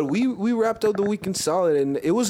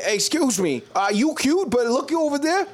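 higher, hammed-up wingman voice; mock wingman pitch; 4 semitones higher than usual. Buddy acting out a wingman pitch to girls. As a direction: sell your buddy to a girl. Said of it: "be like".

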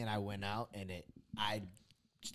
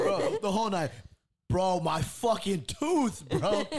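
mock whining; 8 semitones higher, 7 dB louder, slower than usual.

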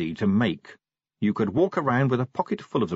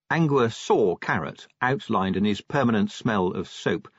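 usual speaking voice

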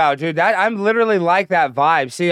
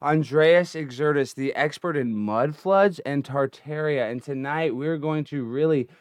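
announcer voice; 5 semitones lower, 8 dB quieter than usual. Shown as a demonstration. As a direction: introduce the guest like a grand announcer. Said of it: "let me give a better intro".

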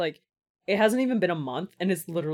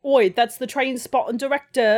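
mock British accent; 4 semitones higher, 5 dB louder than usual. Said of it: "New accent unlocked".

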